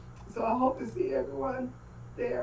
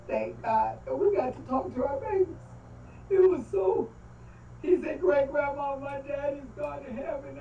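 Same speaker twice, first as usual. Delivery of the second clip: emotional; 4 semitones higher than usual. Real, not acted. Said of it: "Sorry, I got emotional".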